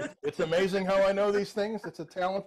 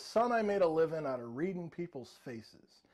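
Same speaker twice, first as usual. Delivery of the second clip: slow, lightly dramatic quote; slow recital; 4 semitones lower, 4 dB quieter, slower than usual. Retold or imitated. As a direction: recite it slowly, like wise advice. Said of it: "And that's where he says".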